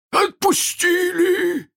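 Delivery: very high, drawn-out yell; loud, high cry of disbelief; outraged cry. A narrator's reading. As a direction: shriek it back in outrage. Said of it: "вскричал Крюк".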